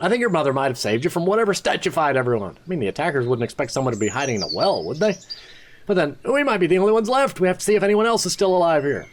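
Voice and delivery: lightly voiced anxious young man; worried apprentice. Apprentice Word worrying aloud to the hero. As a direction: reason it out with rising worry.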